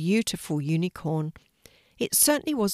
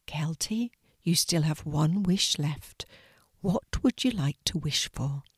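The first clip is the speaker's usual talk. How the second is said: gentle fairy whisper. Acted. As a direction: breathe the words like a tiny fairy. Fairy speaks softly to Kelty.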